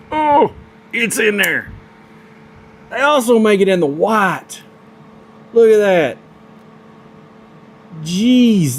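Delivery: nerding out over the knives, squealing with excitement; real excitement. Real, not acted. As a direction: voice jumps way up with delight. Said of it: "I'm so excited right now".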